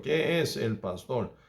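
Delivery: ordinary talk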